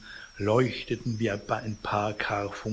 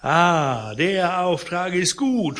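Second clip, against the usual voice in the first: mad laughter; 6 semitones higher, 6 dB louder, slower than usual. Acted. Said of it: "unter tollem Gelächter".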